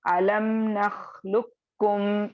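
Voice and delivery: "अलम नखलुकुम" slow, with the क doubled; recitation demo. Shown as a demonstration. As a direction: recite slowly, merging क़ into क. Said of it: "कॉफ साकिन है". (धीमी तिलावत, क़ को क में मिलाकर)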